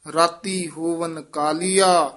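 ਕਾਲੀਆ ends with a falling close; pause after ਕਾਲੀਆ. Shown as a demonstration. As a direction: stop cleanly after ਕਾਲੀਆ. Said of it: "ਇੱਥੇ ਵਿਸਰਾਮ".

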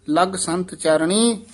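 slow "ਲਗ ਸੰਤ ਚਰਣੀ", then halt; short pause after. Shown as a demonstration. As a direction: break briefly after "ਚਰਣੀ". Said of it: "ਇੱਥੇ ਠਮਕ".

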